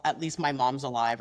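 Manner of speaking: low, offhand imitated dig; nonchalant passive-aggression. Shown as a demonstration. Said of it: "something that's really nonchalantly said".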